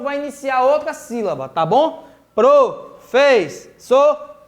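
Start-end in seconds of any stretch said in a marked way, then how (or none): 2.3-4.4 PROFESSORA slowly split into four separate syllables. Shown as a demonstration. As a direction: break "Professora" into pro, fes, so, ra with pauses. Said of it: "a divisão silábica da palavra".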